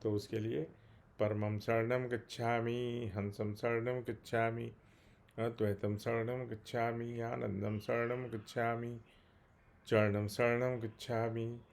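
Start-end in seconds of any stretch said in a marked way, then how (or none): 1.2-11.6 slow, measured refuge chant; prayer recitation. Real, not acted. Devotee opening a prayer to his master, slow devotional recitation. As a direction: recite each line evenly, drawing out the endings.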